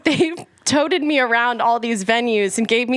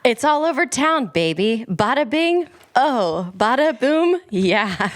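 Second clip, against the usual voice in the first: dramatic reading. Pretend. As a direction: pop lyrics in mock drama, pitch swinging up and down. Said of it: "Dramatic reading, cold read".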